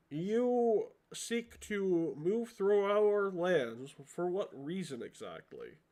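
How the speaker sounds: slow, drawn-out regal questioning; lightly voiced kobold ruler, measured and suspicious; crowned kobold.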